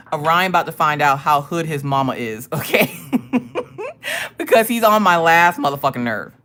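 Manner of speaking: exasperated, breaking into laughter; amused, fed-up mom; laughing warning. Real, not acted. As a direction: threaten through real chuckles. Laughs while warning about son.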